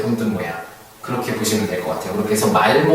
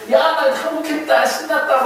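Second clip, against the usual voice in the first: mock gleeful surrender cry. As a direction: play a silly loser who brags he gave up. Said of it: "막 이렇게 막 떠들고 난리인가요". (항복하고 신나서 떠드는 척, 높고 느린 과장된 목소리)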